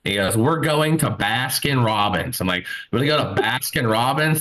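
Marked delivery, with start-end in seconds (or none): 0.3-2.4 slow, insistent statement with falling end; firm announcement. Retold or imitated. Autistic friend announcing where they will go, firm. 2.9-4.4 mildly incredulous echo; questioning repeat. Retold or imitated. Friend questioning a half-mile detour, mildly incredulous.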